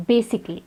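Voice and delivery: basically said with the A dropped; basically in three syllables, no A before the L; silent A. Shown as a demonstration. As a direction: say basically as BAY-sik-lee. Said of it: "In the same pattern".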